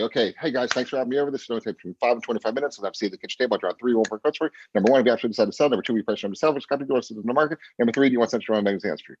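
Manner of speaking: rapid-fire run through a memorized script; script on autopilot. Shown as a demonstration. Coach showing agents the script internalized, rattled off on autopilot. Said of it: "you don't even look at the script".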